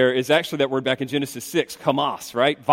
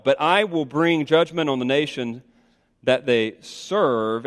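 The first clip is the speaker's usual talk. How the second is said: reading aloud, "serve" drawn out slowly; slow right down on "serve"; stress on SERVE. Shown as a demonstration. Preacher reading a verse, "serve" stretched for emphasis. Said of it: "I'll emphasize the word for you".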